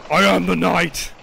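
slow, lightly voiced Batman line; a hint of a brooding Batman, slow. Gamer joking that a teammate looks like Batman, slow mock Batman. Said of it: "It's freaking like Batman".

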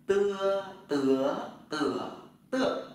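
"tưa" said through four tones, loud, first one high; Chinese tone drill. Shown as a demonstration. Teacher drilling students on "tưa". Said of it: "Tập lại này".

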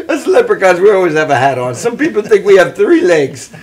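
stage Irish leprechaun lilt; Irish accent. Acted. Leprechaun explains his hat to the others, in Irish accent. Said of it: "I can do an Irish voice".

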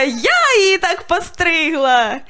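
slow, beaming proud answer. Retold or imitated. Owner cheerfully confessing to a passerby, slow and proud. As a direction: announce it slowly with pride. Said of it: "Я така".

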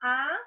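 "A" set apart as one syllable; isolated syllable. Shown as a demonstration. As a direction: say "A" alone, then pause. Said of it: "uma sílaba".

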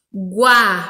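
GUA-RU-BA in separate beats, first one loud; syllable by syllable. Shown as a demonstration. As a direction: sound out each syllable with clear gaps. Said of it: "tá escrito".

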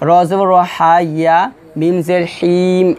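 slow হিম drawn out as wrong example; মিম জের হিম, the mistake; wrong spelling. Shown as a demonstration. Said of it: "এভাবে কিন্তু বানান হবে না". (ভুল বানান)

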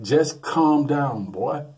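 slow, soothing reassurance; calming. Retold or imitated. Buddy to the panicking nephew, slow and soothing. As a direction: talk him down slowly. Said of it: "It's like".

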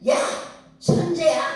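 high, loud call to a distant mountain; mock call-out. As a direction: demonstrate how to holler at a mountain. Mother demonstrates shouting at mountain.

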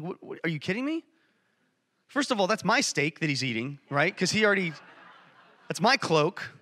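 lightly acted indignant brother; upset disbelief. Brother seeing the party for his sibling, indignant. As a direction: protest as the slighted sibling, mildly worked up. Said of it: "I'd be pretty upset too".

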